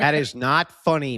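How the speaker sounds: mock scolding through laughter; laughing. Real, not acted. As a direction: try to scold but crack up. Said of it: "Who's laughing?".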